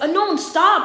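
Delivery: hint at the scream without letting it rip; mild mock yell, a little high; toned-down scream. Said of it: "I screamed at him".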